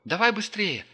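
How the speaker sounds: high excited yell; excited shout. Acted. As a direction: squeal it over the engine. Polina urging on, engine roar.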